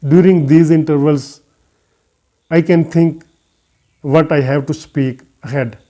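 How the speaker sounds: pausing between short phrases; deliberate pauses. Shown as a demonstration. Teacher showing learners how intervals give thinking time, deliberate pauses. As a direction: leave a gap after each phrase to think ahead. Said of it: "I'm making some, some seconds intervals".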